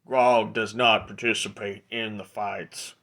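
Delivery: half-orc heavy, deliberate and stilted; lightly voiced big brute; Grog. Half-orc refusing to join the fights, brute's voice. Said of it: "Hey, Grog, you big guy".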